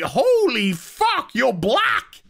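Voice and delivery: high, drawn-out shocked exclamation. Retold or imitated. Luke and Mary recoiling on seeing her face, high and stunned. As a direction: recoil in surprise. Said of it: "they're like".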